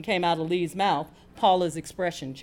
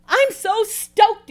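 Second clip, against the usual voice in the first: high, loud, drawn-out thrill; excited exclamation; 13 semitones higher, 7 dB louder, much slower than usual. A narrator's reading. Lee announcing a prize win to her friend, excited. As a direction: burst out with it, stretching the words. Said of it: "exclaimed Lee".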